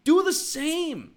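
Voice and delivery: high, slow and punched; slow, loud command to the listener; emphatic order. Real, not acted. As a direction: drive it home to the listener. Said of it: "And you, dear listener".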